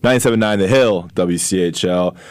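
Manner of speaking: slow, upbeat radio host read; radio announcer. Acted. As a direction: announce the show like a DJ. Radio show intro.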